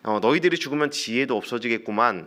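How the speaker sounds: lightly acted sarcasm, stretching the first words; sarcastic sneer. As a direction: needle them with understated mockery. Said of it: "비아냥거리는 듯한 말로".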